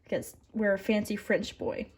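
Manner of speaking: put-on dubious fancy French accent; playful attempt at a French accent; mock French accent. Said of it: "if that's a French accent".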